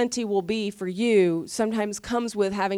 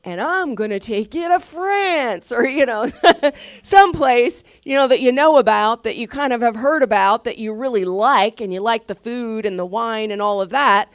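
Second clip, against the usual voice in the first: animated preaching; 3 semitones higher, 6 dB louder than usual. Real, not acted. Impassioned preaching point.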